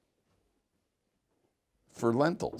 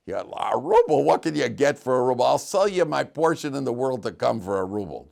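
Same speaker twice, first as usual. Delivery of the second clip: loud, jeering retold scoff; laughing mockery; 3 semitones higher, 5 dB louder than usual. Rich guy at the inn scoffs at the Jew's ruble, mocking. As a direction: scoff loudly at a laughable offer. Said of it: "some guy laughs".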